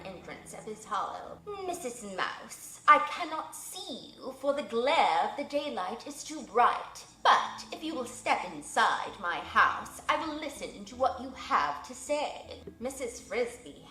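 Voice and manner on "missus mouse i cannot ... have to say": stately owl. Acted. Owl speaks to the mouse.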